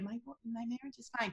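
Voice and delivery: hushed imitation of a nervous denial; soft denial. Imitating a star in an interview, soft denial. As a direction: drop it soft as if hiding something. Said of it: "voice went down really soft".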